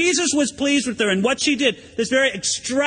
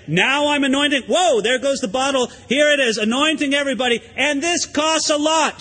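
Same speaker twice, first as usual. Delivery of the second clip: mock her as a show-off, slightly higher; mock showy Mary; 4 semitones higher than usual. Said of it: "She didn't say".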